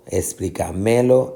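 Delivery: slow explícamelo with ME stressed. Shown as a demonstration. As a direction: shift the weight of explícamelo onto ME. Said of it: "la fuerza de pronunciación, no acá". (explícamelo con acento en ME)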